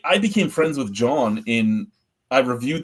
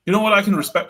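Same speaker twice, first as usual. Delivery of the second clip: much higher, louder mock brewer voice; indignant brewer; 10 semitones higher, 5 dB louder, much faster than usual. Brewer confronting the reviewer who slagged his beer, high mock voice. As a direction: squeak it out like an offended brewer.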